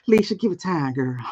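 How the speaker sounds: lightly voiced Whoopi from Ghost; Whoopi Goldberg impression. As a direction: Whoopi from Ghost, gently imitated. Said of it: "I read that in, um, Whoopi's voice from Ghost".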